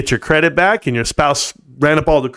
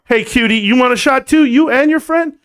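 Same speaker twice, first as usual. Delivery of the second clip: higher, lightly flirty come-on; flirty bar voice; 9 semitones higher than usual. Retold or imitated. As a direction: chat up a stranger at the bar. Retold bar pickup line.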